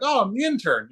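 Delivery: high-pitched retold intern reply; innocent intern. Intern explaining himself to puzzled staff, high mock innocence. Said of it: "And I'm like".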